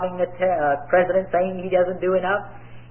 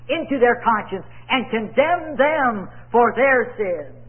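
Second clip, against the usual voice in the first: raised, cadenced sermon voice; preaching; 5 semitones higher than usual. Real, not acted. Preacher expounding scripture to his congregation, preaching. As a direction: preach it out with ringing emphasis.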